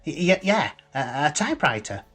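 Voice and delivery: hasty backtracking. A narrator's reading. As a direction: stumble into agreeing with the other answer. Harry hastily changes his answer.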